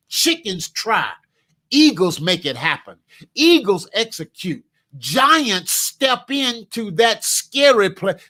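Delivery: normal talking voice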